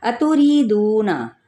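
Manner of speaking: अतुरीदूना slow with री and दू held; tajweed recitation. Shown as a demonstration. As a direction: recite it drawn out. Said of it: "इन हरकात को लंबा नहीं करेंगे".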